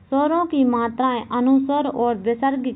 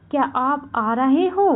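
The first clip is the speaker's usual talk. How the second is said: demonstrated question lilt on क्या आप आ रहे हो; questioning intonation; 3 semitones higher than usual. Shown as a demonstration. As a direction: question tune rising through क्या आप आ रहे हो. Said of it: "उदाहरण है".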